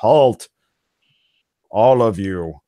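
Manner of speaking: loud, booming giant voice. Narrating a game scene, the speaker voices a command heard telepathically, giant telepathic voice. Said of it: "you hear a giant voice telepathically say".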